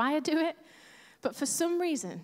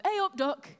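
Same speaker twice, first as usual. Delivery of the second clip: friendly Leeds greeting, higher pitch; Leeds accent; 6 semitones higher than usual. Retold or imitated. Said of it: "when I moved to Leeds".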